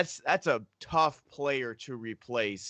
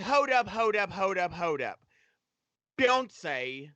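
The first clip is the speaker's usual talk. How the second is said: put-on British accent; 2 semitones higher than usual. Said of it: "British accent".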